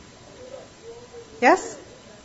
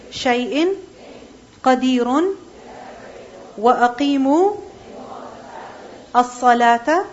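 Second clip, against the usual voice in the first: Quran recitation. Acted. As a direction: recite each phrase with a pause after it. Teacher recites Quran before lesson.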